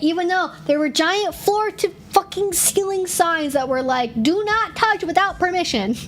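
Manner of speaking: ranting, all-out heated yelling, pitched high. Recounting people touching them at events without permission, yelling. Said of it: "I'm yelling".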